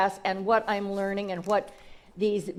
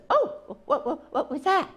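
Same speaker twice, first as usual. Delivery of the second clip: put-on startled baby eagle; 6 semitones higher than usual. Baby eagle after first bump.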